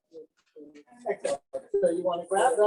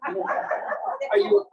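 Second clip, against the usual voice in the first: laughing; 10 semitones higher, much slower than usual. Real, not acted. Teasing joke to a volunteer.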